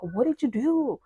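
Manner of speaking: retold accusing question with a pitch jump; shocked confrontation. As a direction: pounce on the question, high and incredulous. Brothers confront her about the news.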